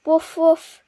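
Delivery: a happy mock bark. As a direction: bark it like a pleased little dog. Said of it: "he barks".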